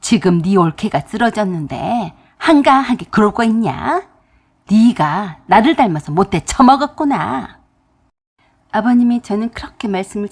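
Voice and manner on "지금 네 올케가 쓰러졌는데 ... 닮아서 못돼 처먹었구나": stern rebuke. Retold or imitated. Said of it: "아버님이 ... 그러셨습니다".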